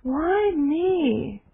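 anguished cry. Retold or imitated. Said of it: "she just let it pour out of her".

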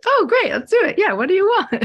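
high, loud, hammed-up eagerness; mock enthusiastic. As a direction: play up the excitement with a laugh behind it. Her own eager reply, retold.

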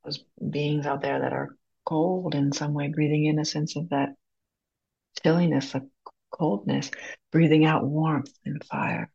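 unhurried guided breathing, long pauses between phrases; calm meditation guide, leaving room to breathe. Acted. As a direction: lead a group gently through each breath.

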